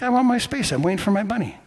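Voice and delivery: mildly whiny stand-your-ground complaint; indignant protest. Retold or imitated. Driver refusing to give up his parking spot, indignant. Retold stubborn protest at airport.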